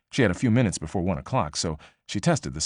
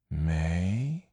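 put-on older sister voice. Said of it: "older sister who had seen more".

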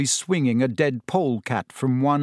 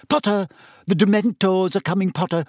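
high, loud mocking shriek; a girl shrieking a taunt at Harry; 6 semitones higher, 3 dB louder than usual. A narrator's reading. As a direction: jeer it across the room. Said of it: "shrieked Pansy Parkinson".

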